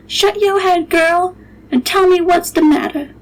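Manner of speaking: cook scolding. Acted. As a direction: snap at the girl like the old cook. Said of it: "she said".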